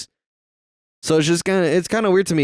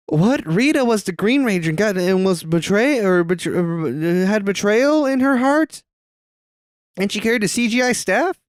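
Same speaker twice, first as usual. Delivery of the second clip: high astonished disbelief; shocked; 9 semitones higher than usual. Real, not acted. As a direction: react in total shock. Shocked by plot twist.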